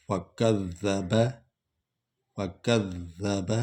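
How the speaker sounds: فَكَذَّبَ with a soft, doubled ذ, not a z; فَكَذَّبَ with light, doubled dhal, no buzz. Shown as a demonstration. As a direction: say فَكَذَّبَ holding the doubled ذ gently. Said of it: "ذال کو stress نہیں کرنا".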